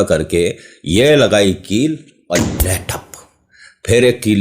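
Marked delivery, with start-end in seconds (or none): 1.5-3.1 slow, soft mouth-made thud on ठप; playful hammer-blow sound, ठप said slowly; hammer sound effect. Shown as a demonstration. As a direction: knock the nail in with your mouth, ठप. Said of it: "लग रहा है ना कील लगा रहा हूं".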